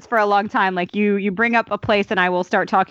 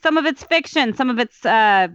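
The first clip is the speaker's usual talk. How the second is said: put-on Brooklyn accent; 3 semitones higher than usual. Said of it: "I meant to be doing this whole thing in a Brooklyn accent".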